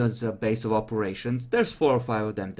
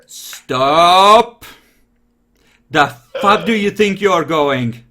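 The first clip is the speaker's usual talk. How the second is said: loud, raised-pitch angry challenge; furious shout; 5 semitones higher, 11 dB louder, much slower than usual. Acted. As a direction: roar it to halt someone leaving. Game master voices furious character shouting.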